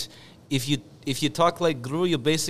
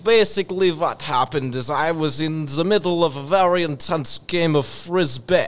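put-on Russian accent; 4 dB louder than usual. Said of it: "the Russian accent".

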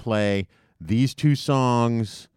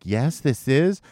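radio host; 7 semitones higher, 6 dB louder than usual. Retold or imitated. Radio host voiced in story.

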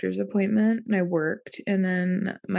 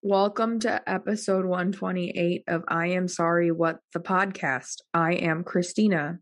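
monotone. Real, not acted. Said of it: "sounded very, like, monotone and not interested".

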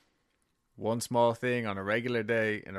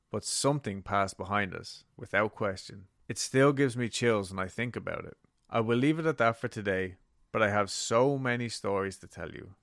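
creepypasta narrator. Acted. Reads listener letter aloud.

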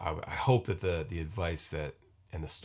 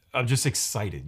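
higher, louder burst of real excitement; excited; 5 semitones higher, 6 dB louder, slower than usual. Real, not acted. Podcaster admitting his nerves to listeners, excited. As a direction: let the excitement push the voice up. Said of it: "You can just hear it".

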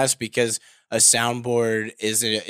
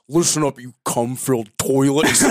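mock host address. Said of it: "Dan addressing the listeners as".

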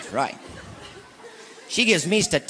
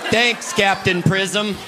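slow sarcasm; 3 semitones higher, much slower than usual. Acted. Sarcastic thanks.

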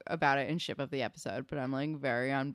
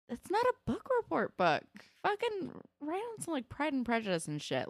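high, indignant comic rant; mock outrage; 11 semitones higher than usual. Real, not acted. Host scolding the characters about book reports, outraged. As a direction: scold them like an exasperated teacher.

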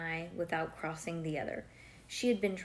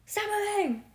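high, loud snapping order; hammed-up exasperated yell; mock shout; 13 semitones higher, 4 dB louder than usual. Shown as a demonstration. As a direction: shout it as if fed up. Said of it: "So I'm gonna ask you".

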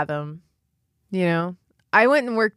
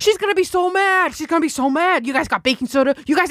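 funeral director impression; 9 semitones higher, faster than usual. Funeral director panicking over his clean car, high frantic whine. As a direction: squeal it like a frantic little New York man. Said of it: "he goes".

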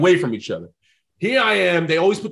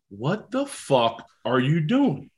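slow, drawn-out disbelief; exasperated agent; much slower than usual. Retold or imitated. Agent to player whose phone died, exasperated. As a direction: chew him out word by word.

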